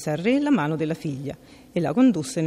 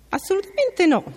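much higher, louder flat refusal; emphatic refusal; 6 dB louder than usual. A narrator's reading. Princess refuses the frog her pillow, loud. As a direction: shut him down hard.

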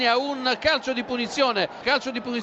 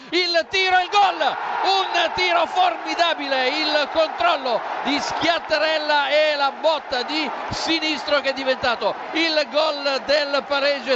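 high shouted goal call; excited shout; 3 semitones higher than usual. Real, not acted. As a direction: burst out calling the goal. Live equaliser call on radio.

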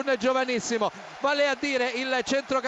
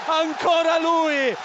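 breathless italian goal commentary; 3 semitones higher than usual. Real, not acted. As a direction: scream the goal to the crowd. Goal call, shouting.

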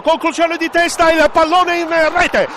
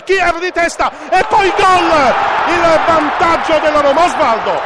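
breathless italian goal commentary; 2 semitones higher, 4 dB louder than usual. Real, not acted. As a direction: call the goal with a lift. Goal called out.

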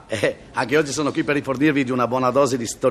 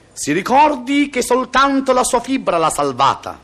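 doctor voice; 8 semitones higher, 4 dB louder, slower than usual. Acted. Doctor lectures patient.

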